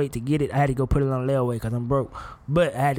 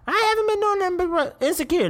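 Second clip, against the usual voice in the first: exaggerated; 14 semitones higher than usual. Real, not acted. Comic exaggerated declaration.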